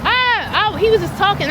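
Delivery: high, stammering disbelief; a pitch jump of real disbelief; stunned shock. Real, not acted. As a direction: trip over your words in real shock. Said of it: "I'm sitting here in shock".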